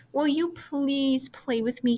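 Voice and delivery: a little pig hoping for a friend; a hint of a hopeful piglet; pleading pig. Wilbur pleading in story.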